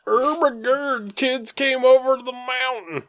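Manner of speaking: mock surprise. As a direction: stretch it out like a stunned grown-up. Mimicking Danny's surprised greeting.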